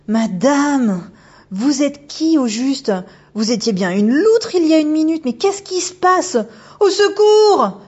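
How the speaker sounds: put-on high, loud frightened girl's voice rising to a cry; a schoolgirl losing her nerve, ending in a yelp for help; panicked young girl. Megumi panicking at the otter woman, high frightened girl voice.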